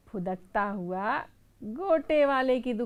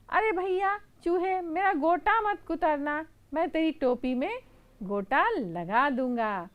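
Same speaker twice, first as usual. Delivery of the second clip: scared seller; 6 semitones higher, 4 dB louder than usual. Acted. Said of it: "गोटे वाला डर जाता है".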